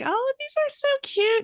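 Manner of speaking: very high, drawn-out squeal of delight; hammed-up girlish adoration, slow and high; mock gushing. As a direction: coo it loud and sky-high. Quotes past self gushing over shoes.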